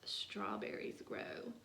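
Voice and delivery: gentle poem reading. Acted. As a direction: read it like a little poem.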